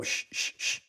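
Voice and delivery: soft whispered shushing; hushing. Retold or imitated. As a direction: shush him urgently but quietly.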